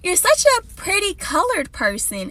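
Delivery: put-on little girl voice. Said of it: "this is what she said".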